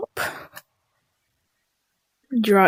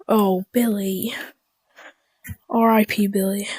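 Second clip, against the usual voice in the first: mock mourning whisper; 6 dB quieter than usual. Mourning a dead friend in game.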